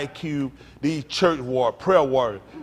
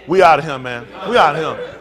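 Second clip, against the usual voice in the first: loud, laughing "We out of here"; laughing walkout; 5 semitones lower, 7 dB louder than usual. Pretend. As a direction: crowd leaving, laughing and loud. Crowd walking out, laughing.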